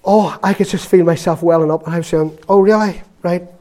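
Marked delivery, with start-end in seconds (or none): 2.5-3.5 sharp, high shocked oh really; a pained start at the news. Retold or imitated. Hearing a churchgoer attack her minister, shocked.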